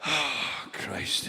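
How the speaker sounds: breathy whispered exasperation; weary dismay. Acted. Householder hearing the advert again, weary whisper. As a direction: sigh it out under your breath.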